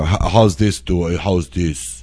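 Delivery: attempted New York accent, drawn out; hammy New York accent on request. Shown as a demonstration. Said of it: "Can you do a New York accent?".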